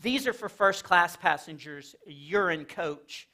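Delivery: slow, haughty attendant voice; snooty flight attendant. Retold or imitated. Flight attendant snubbing a coach passenger, slow and haughty. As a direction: look down your nose at the passenger. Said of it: "He was like".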